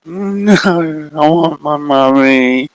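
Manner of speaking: put-on high, slow child's plea; tearful little girl. Maddie asking for her mummy, high and pleading. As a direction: cry for her mother.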